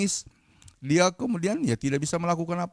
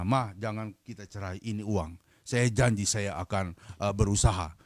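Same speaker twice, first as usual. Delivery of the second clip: low, soft appeal to a wife; subdued husband asking to reconcile; gentle pleading; 5 semitones lower, 5 dB quieter than usual. Retold or imitated. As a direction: make a quiet, earnest promise. Husband pleading softly with estranged wife.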